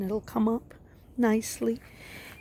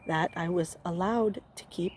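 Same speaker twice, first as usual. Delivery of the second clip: allowed pressed firmly, falling tune at the end; stress on allowed. Real, not acted. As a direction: lean hard into the word allowed as a pointed hint. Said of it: "I emphasize the word allowed".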